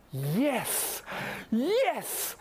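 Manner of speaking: high, eager double yes; too enthusiastic yes. Retold or imitated. Girlfriend answering his question with eager yes. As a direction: gush the yes like she can't wait. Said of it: "a little too enthusiastic for my liking".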